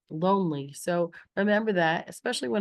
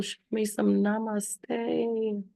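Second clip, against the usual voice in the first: calm namaste; 2 semitones higher, much slower than usual. Shown as a demonstration. Teacher models calm gesture.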